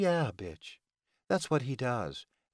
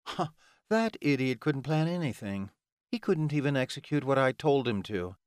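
annoyed, higher-pitched villainess rant; 5 semitones higher than usual. Acted. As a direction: vent exasperation at the incompetent helper. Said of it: "she ranted".

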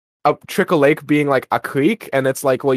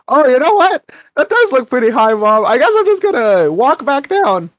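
high-pitched, loud put-on kid voice; imitated backing-out son; 9 semitones higher, 4 dB louder than usual. Jimmy telling Mom he's walking back down, put-on high voice. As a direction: pitch it up, hammed-up second thoughts.

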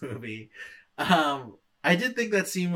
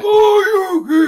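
shouted battle cry; 15 dB louder, slower than usual. Retold or imitated. Retelling fight move shout.

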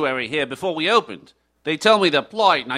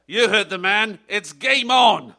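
excited; 3 semitones higher than usual. Acted. Triumphant cue before outro music.

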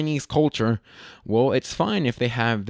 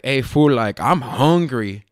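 put-on slow, louder LA Latino accent; 5 dB louder, slower than usual. Catching himself talking like friends, LA accent. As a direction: draw it out in an LA accent. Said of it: "the L A accent is very prevalent".

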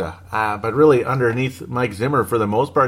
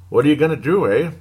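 put-on lightly Canadian-accented delivery; a hint of playful Canadian; 3 semitones higher, faster than usual. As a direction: slip into a casual Canadian accent. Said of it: "Pardon my Canadian accent there".

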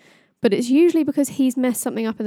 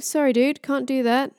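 casual refusal with the put-on accent slipping; lightly acted, higher-pitched offhand apology; Loki; 4 semitones higher than usual. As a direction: play a trickster, losing the character accent. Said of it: "Oh, my accent's gone".

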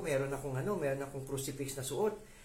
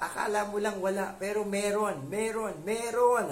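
meron repeated, rising higher and louder each time; building insistence; 7 semitones higher, 7 dB louder than usual. Real, not acted. Preacher insisting to listeners, each meron louder. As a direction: drive each meron harder than the last.

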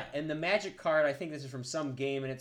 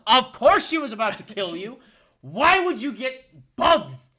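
loud, higher, laughing outburst; laughing disbelief; 7 semitones higher, 11 dB louder than usual. Real, not acted. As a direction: crack up while asking why. Laughing at the review.

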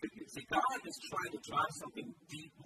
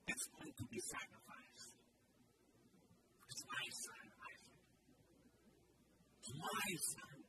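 acted choked plea, fading softer; choking up; 2 semitones higher, 5 dB quieter than usual. God tells Abraham it's his own son, choking up. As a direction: plead haltingly, sinking almost to nothing. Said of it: "his voice choking up as he's talking".

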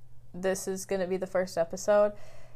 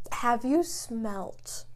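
whisper; 6 dB quieter, much slower than usual. Real, not acted. Hushed build-up about candle.

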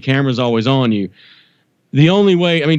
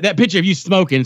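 imitating mom; 5 semitones higher than usual. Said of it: "she hates it when I do her".

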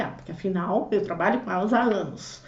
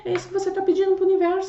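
emphatic; 7 semitones higher, faster than usual. Real, not acted. Emphatic punchline of the teaching.

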